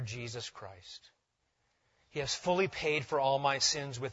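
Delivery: measured, solemn reading aloud; catechism recitation. Acted. Reads out Heidelberg Catechism.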